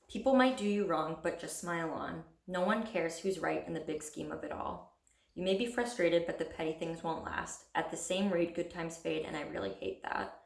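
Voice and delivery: even recital, each line falling softly away; poem reading. Acted. Poet reading about growing up to viewers, poem reading.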